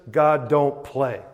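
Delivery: slow, blunt colloquial English; common English. Shown as a demonstration. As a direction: put it in everyday English, drawn out. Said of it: "say it in kind of a common English".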